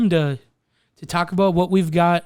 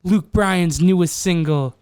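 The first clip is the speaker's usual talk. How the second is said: radio DJ voice; 3 semitones higher than usual. Pretend. Mock radio DJ intro.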